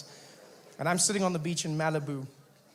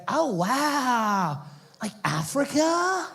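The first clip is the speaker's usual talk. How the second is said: put-on high, amazed surfer-girl gush; California babe; 7 semitones higher, much slower than usual. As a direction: marvel like a ditzy beach girl, drawn out. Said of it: "California babe".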